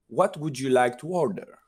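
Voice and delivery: lightly imitating a courteous waiter; a hint of a formal, gentle server taking an order; mild mock politeness of a suited waiter; polite waiter. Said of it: "the waiter comes very polite, very gentle".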